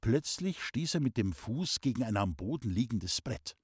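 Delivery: ordinary delivery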